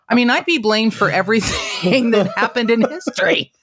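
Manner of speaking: high comic protest, laugh breaking in; amused exaggeration. Joking she'd be blamed for all history, laughing mock protest. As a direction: play up the absurdity with a laugh.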